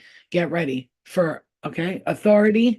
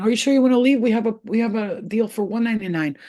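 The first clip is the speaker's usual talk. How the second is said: imitating a begging cancellation rep, higher; hammed-up salesperson pleading; mock desperate service; 4 semitones higher, 4 dB louder than usual. Streaming service begging her to stay, mock pleading. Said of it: "if you say cancel again".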